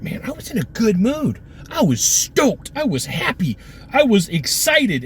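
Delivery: a hint of a deflated customer; mock disappointed. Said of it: "and you're like".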